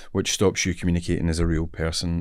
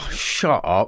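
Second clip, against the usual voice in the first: mock disbelief, close to usual pitch; incredulous; slower than usual. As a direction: brush off an unbelievable offer, drawn on "shut". Disbelief at being offered Bond.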